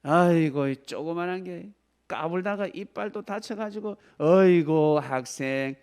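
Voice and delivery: a sneering dentist, lightly voiced; mock rude dentist. Dentist to a child patient, mock belittling. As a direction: belittle the little kid.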